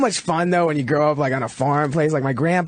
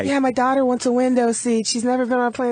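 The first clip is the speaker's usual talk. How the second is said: high, nasal entitled mother impression; whiny passenger mom voice; 7 semitones higher than usual. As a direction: whine it like a pushy plane passenger. Mocking an annoying passenger mother.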